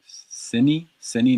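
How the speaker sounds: "sini" with a short, closed final i; correct vowel. Shown as a demonstration. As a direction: say "sini" ending in ee, not ay. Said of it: "not sine".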